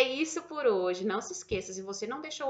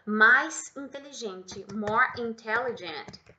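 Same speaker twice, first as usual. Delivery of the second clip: slow model phrase; much slower than usual. Shown as a demonstration. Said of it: "por exemplo, ó".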